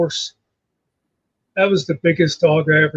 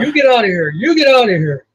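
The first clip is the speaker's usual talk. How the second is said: put-on higher-pitched old woman with a Russian accent, scolding; 5 semitones higher than usual. Old lady chasing a bear off her porch, Russian accent scold. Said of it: "she had, like, an old Russian accent".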